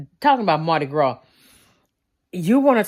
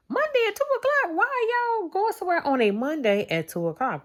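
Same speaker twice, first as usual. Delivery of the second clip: much higher, fast disbelieving question; mock incredulous; 12 semitones higher, faster than usual. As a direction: play the puzzled viewer, pitched way up. Imagined viewer questioning the plan.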